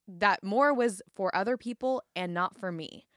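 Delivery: measured reading aloud; narrating from a memoir; book excerpt reading. Acted. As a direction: read the passage out to listeners, phrase by phrase.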